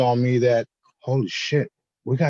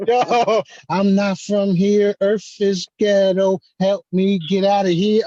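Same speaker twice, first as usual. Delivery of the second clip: mock video voice; 5 semitones higher, slower than usual. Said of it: "I said".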